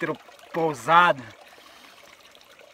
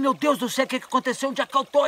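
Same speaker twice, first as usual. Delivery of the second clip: high, confused startled voice; mock startled awakening; 8 semitones higher than usual. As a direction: sound just jolted awake and lost. Waking up startled in tent.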